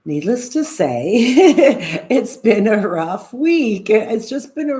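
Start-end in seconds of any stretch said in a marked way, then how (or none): 1.2-2.0 a short burst of real laughter at her own misery; bright helpless laugh; rueful laugh. Real, not acted. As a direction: laugh it off, half exasperated. Laughing at her own bad week.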